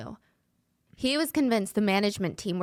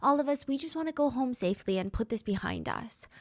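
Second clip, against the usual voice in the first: higher-pitched, placating plea; calming him down; 6 semitones higher, 4 dB quieter than usual. Acted. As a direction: talk a paranoid leader down. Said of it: "tried to calm Lu down".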